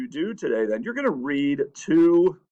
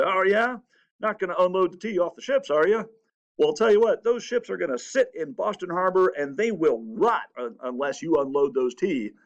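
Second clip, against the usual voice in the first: higher, defiant taunting governor; mock angry governor; 3 semitones higher than usual. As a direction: sneer back at the colonists, daring them. The governor angrily answers colonists.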